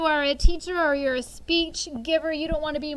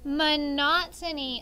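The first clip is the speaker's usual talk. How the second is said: Monotony, stressed on the second syllable, mo-NO-to-ny, slowly; slow model word; slower than usual. Shown as a demonstration. Teacher gives the right pronunciation, slowly. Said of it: "Say it with me".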